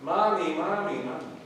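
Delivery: put-on frightened child. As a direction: cry out again like a frightened little boy. Boy calls a third time.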